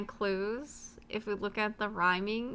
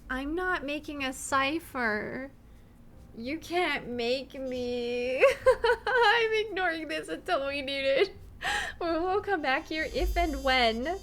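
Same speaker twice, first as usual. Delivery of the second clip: laughing refusal; 5 semitones higher, 4 dB louder than usual. Real, not acted. Refuses the cipher again.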